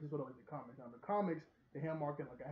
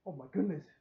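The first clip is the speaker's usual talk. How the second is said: startled gasp; 6 dB louder than usual. Acted. Character sees something shocking.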